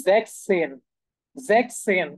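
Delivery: "জ্যাকসেন" said as German sechzehn, with no s between the k and the second syllable; German pronunciation demo. Shown as a demonstration. Teacher shows learners how German sixteen is pronounced, German pronunciation demo. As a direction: model "জ্যাকসেন" slowly as two even German syllables, zeks-sen. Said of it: "এটার যে উচ্চারণ সেটা একটু different".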